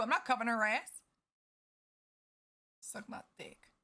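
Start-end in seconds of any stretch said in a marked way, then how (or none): 2.8-3.7 whispered. Real, not acted. Defiant aside.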